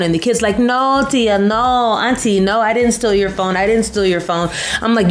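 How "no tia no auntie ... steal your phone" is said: put-on a kid begging Auntie to believe him; scared boy protesting innocence; pleading boy. Boy denies stealing, pleading.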